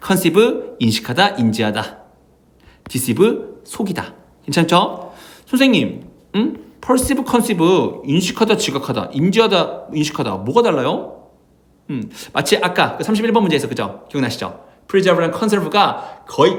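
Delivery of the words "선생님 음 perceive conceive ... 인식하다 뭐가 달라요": lightly voiced student, higher at the start; puzzled student. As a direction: open high as a student questioning the teacher. Acts out a student's question. (선생님께 질문하는 학생 말투로 살짝 높게)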